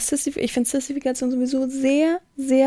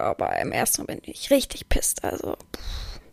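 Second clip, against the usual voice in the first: whispered confession; 12 semitones lower, 7 dB quieter than usual. Real, not acted. Whispered admission of anger.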